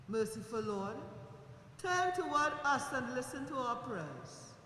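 solemn, measured prayer voice. Real, not acted. Funeral prayer over the coffin.

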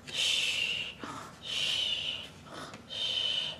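very soft breathy shh; host shushing the toys so they can nap; whispered shushing. Pretend. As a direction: hush a sleeping baby.

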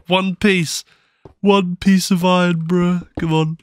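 scoffing at the loot; amused disbelief; mock disappointment. Real, not acted. Mocking tiny iron find.

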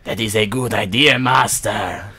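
low, servile Igor voice. Acted. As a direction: grovel like a hunchback servant. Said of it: "Accent change to Igor".

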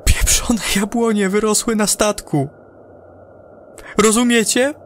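unraveling crewman begging to come home; panicked astronaut. Acted. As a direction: hysterical astronaut over the radio. Astronaut panics about apple trees.

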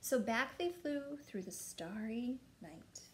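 slow, drawn-out storybook reading; storybook narration. A narrator's reading. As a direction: read it slowly to a small child. Reading picture book to child.

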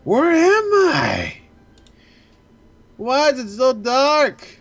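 put-on drawn-out country accent; Southern accent. Player voices the character waking in the dark, Southern accent. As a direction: read it slowly as a lost Southerner. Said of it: "We're going southern accent already".

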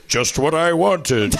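lightly voiced God, drawn out slowly; slow, self-satisfied God; God's voice. Comic telling of a play's end, God savoring slowly. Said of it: "you hear God saying".

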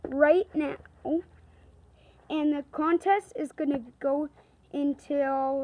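muffled helmet voice, loud; inside a football helmet. Real, not acted. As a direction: call out through a helmet. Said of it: "I got my helmet on".

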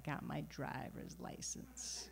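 soft, slow New York mom; proud little secret in a New York voice; mom's New York accent. Retold or imitated. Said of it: "which I like to mimic".

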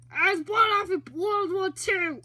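put-on loud, indignant old man yell; very old man shouting. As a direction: shout it like a cranky old veteran. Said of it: "This is very old man".

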